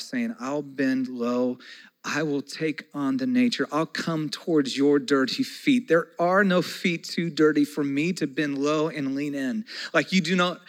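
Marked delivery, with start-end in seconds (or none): 0.4-9.7 Jesus speaking gently. Acted. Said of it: "Jesus shows them ... saying".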